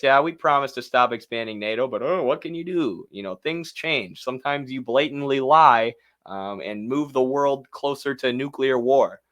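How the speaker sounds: sneering mock confession, dismissive shrug; mocking imitation. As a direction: parody him as smug and careless. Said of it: "he admits this".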